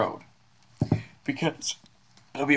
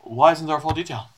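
suspicious guard; 5 semitones higher, 5 dB louder, faster than usual. Acted.

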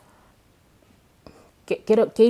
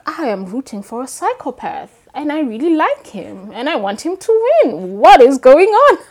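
much higher and louder, rising to near shouting; amused disbelief; 7 semitones higher, 13 dB louder than usual. Retold or imitated. Author recalling rooting for a psychopath, rising in loud disbelief. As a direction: build incredulous excitement to the end. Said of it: "I'm like".

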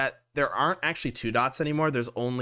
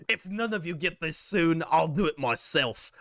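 lightly voiced captain, pitched higher; a hint of a commanding captain; ship captain; 4 semitones higher than usual. Captain warns the party to hurry, lightly voiced higher role. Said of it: "The captain says".

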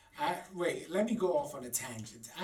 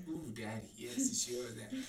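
sophisticated moan; 5 dB quieter than usual. Retold or imitated. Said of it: "I've had the sophisticated one".

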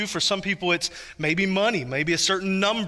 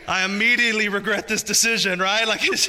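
laughing. Real, not acted. Laughing at son's reaction.

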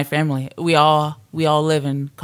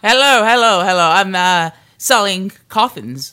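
salesman pitch; 3 semitones higher, 4 dB louder than usual. Pretend. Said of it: "you're the salesman".

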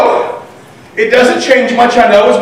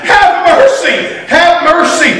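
pleading, pitched higher; mock crying out; 4 semitones higher than usual. Preacher acts the desperate mother crying out, pleading higher. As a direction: cry out her plea, higher and urgent. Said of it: "she is crying out with all that she has".

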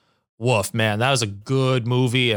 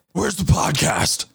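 mock searching; 6 semitones higher than usual.

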